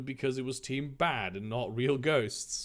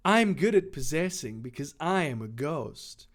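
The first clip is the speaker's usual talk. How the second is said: lightly voiced sultry villain; a hint of sexy villainess. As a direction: say it smugly, with a seductive touch. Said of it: "stick with the sexy voice".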